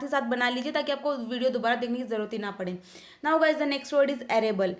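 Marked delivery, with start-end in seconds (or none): 3.3-4.7 very slow, each word spaced out; slow word announcement. Shown as a demonstration. Teacher announcing the next word to students, slow and deliberate. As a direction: announce the new word slowly and clearly.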